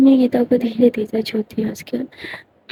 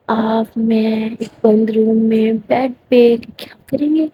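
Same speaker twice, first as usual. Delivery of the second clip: teasing; slower than usual. Acted. Bhumi teasing Geeta on the bed.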